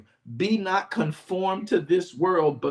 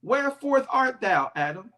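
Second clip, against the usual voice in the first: God calling Adam; 5 semitones higher, 3 dB louder than usual. Acted.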